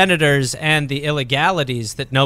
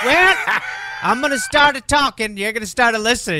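higher, puffed-up mock lawyer; pompous lawyer; 5 semitones higher than usual. Comedian voicing the wordy lawyer, as a smug mock lawyer. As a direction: lay down the terms like a smug lawyer. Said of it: "he'd be like".

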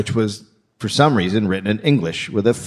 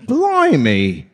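put-on English exclamation; English guy; 3 semitones higher than usual. Comic butts in as an English guy, mock English accent. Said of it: "I was doing an English guy".

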